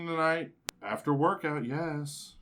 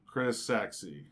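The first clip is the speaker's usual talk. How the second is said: slow, lower mock-seductive "Chris, sexy"; sultry reading; 6 semitones lower, much slower than usual. Host reads a text aloud slowly in a mock-seductive voice. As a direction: drag out the name like a come-on. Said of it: "as the way I read them to us".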